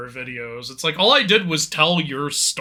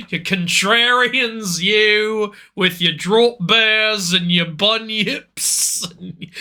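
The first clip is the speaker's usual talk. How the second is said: drawn-out, mock-angry ranting character voice; ranting put-on voice. Teasing friend about living down under, hammy rant. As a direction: rant in a slow, stretched-out hammy voice. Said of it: "I love doing that voice".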